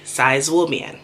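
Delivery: Zai zuobian said with Mandarin tones; Mandarin: 在左边; Mandarin phrase. Shown as a demonstration. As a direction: say Zai zuobian like a local would. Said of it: "I learned how to say".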